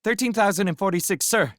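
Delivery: fast, high, instant answer; quick reply. A narrator's reading. Boy answering the quiz without a pause. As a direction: rattle it straight back. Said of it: "replied without a pause".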